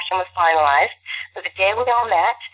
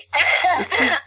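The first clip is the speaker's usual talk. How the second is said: teary laugh; 8 semitones higher than usual. Real, not acted. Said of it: "I just got teary".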